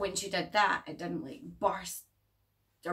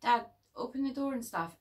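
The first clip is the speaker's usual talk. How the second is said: calling dad; 5 semitones higher than usual. Retold or imitated. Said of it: "he's like".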